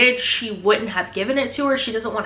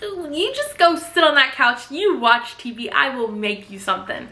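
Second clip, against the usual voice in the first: high put-on sweetness, settling down by the end; mock forced niceness through a fixed smile; gritted-teeth politeness; 4 semitones higher than usual. Nanny placating the rude child, strained politeness. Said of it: "She just grits her teeth".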